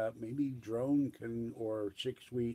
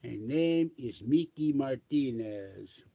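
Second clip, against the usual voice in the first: mock Spanish accent; slower than usual. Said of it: "I don't wanna do Mister Martinez".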